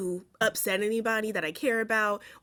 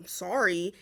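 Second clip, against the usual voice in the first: condescending sorry; 2 semitones lower than usual. Retold or imitated. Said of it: "that tone too".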